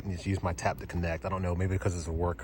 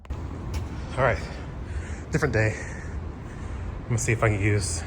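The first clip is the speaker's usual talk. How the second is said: out of breath; 2 semitones higher than usual. Real, not acted. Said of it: "so I'm a little out of breath".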